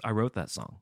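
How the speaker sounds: understated, offhand delivery; nonchalant. Retold or imitated. Songwriter casually revealing himself to the singer, nonchalant. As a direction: say it casually, as no big deal. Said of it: "he goes sort of nonchalantly".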